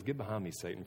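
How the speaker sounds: hushed serious rebuke; quiet stern rebuke. Retold or imitated. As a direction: say it quietly, gravely, as a final word. Jesus rebukes Peter, retold again.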